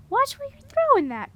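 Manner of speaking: very high loud scold; sharp scolding. A narrator's reading. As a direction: scold the soaked prince. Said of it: "Morwen said to the Stone Prince".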